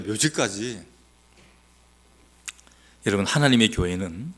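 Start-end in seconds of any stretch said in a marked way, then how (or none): 0.0-0.8 묘지까지 repeated softer and lower; 묘지까지 echoed quietly. Shown as a demonstration. Preacher repeating 묘지까지 to himself, soft and awed. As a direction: let 묘지까지 fall away as an awed echo. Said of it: "야, 여러분".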